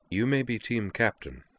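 composed, slightly lifted reply; calm. A narrator's reading. Sky answering the team captain's outburst, calm. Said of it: "he said in a calm voice".

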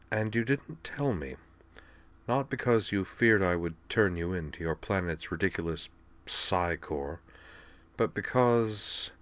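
hushed, lightly voiced patient; weakened invalid princess. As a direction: reason it out quietly from a sickbed.

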